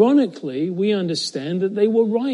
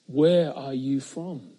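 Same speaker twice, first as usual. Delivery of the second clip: slow, hushed, fearful question; asked with fear; 2 semitones lower, slower than usual. Acted. Pilate asks the prisoner in fear, slow and hushed. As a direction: ask it as a shaken governor would. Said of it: "asked with some fear".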